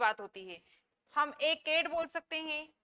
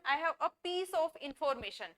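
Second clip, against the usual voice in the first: each word spaced out slowly for students; slow model sentence; much slower than usual. Shown as a demonstration. Teacher reading an example sentence for learners, slowly. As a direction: dictate it slowly. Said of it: "इनके साथ article का use नहीं होगा".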